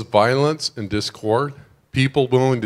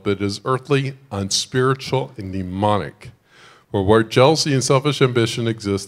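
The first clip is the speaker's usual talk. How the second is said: measured reading aloud of a passage; scripture reading. Acted. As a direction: read the verses with weight.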